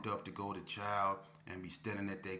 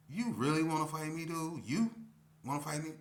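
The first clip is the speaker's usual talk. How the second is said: disbelieving challenge; 7 semitones higher, 5 dB louder than usual. Retold or imitated. Retold fight challenge.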